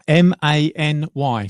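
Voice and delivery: slow, clear letter-by-letter spelling; slow spelled letters. Shown as a demonstration. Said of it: "spells out name".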